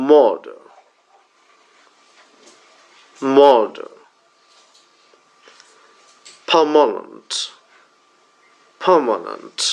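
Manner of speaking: Murder, permanent, Emergency, Worker, Circle with long stressed vowel, weak schwa; repeat-after-me drill. Shown as a demonstration. Teacher drilling learners, Murder to circle each stressed then weakened. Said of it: "আমি প্রতিটাকে তিনবার করে উচ্চারণ করবো".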